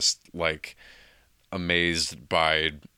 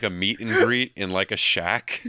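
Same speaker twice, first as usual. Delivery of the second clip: laughing; 4 semitones higher, 5 dB louder than usual. Real, not acted. Laughing about the Goofy shack.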